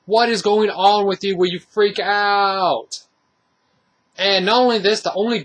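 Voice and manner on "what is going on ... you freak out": high-pitched, slow, incredulous disbelief; mock-baffled outburst at the screen; exasperated. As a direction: demand to know what her problem is. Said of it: "I'm like".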